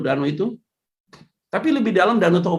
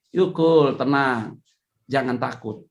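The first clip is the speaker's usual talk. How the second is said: calm reassurance; 7 semitones lower, slower than usual. Retold or imitated. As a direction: settle them down gently.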